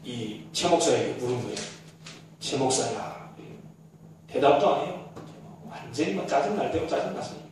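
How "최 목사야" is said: low, soft calling of a name; gentle call from Jesus. Acted. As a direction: call him gently from above. Jesus calls the pastor. (낮고 부드러운 부름)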